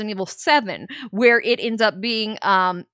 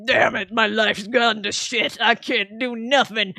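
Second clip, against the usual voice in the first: mock-gruff voice of a washed-up soldier; gloomy Chris. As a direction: grumble it like a self-pitying drunk hero. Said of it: "Chris is like".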